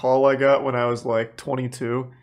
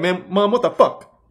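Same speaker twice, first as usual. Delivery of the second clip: mock exasperation; 5 semitones higher than usual. Son blaming his mom for the imagined beating, exasperated. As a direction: pretend fury at mom.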